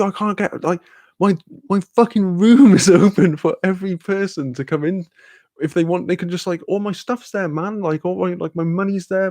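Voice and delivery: high, agitated mock rant at a friend; exasperated telling-off. Retelling his panicked telling-off of friend.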